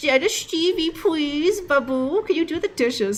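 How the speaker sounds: slow, cutesy, put-on baby talk voice. Asking Steve to do the dishes: put-on baby talk. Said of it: "The please and the baby talk".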